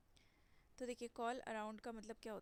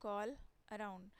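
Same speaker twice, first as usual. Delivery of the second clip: slow keyword; much slower than usual. Shown as a demonstration. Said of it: "use होता है आपका".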